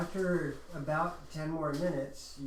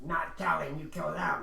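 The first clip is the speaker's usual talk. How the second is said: goblin voice. Acted. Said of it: "I love your Goblin voice".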